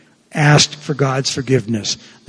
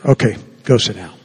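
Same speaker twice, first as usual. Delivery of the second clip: unpleasantly; 5 semitones lower, faster than usual. Retold or imitated. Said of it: "And I don't say it pleasantly".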